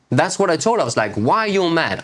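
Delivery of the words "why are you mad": higher, mildly irritated question; mock irritated snap at partner; annoyed. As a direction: retell your own annoyance, lightly. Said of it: "I became mad at her".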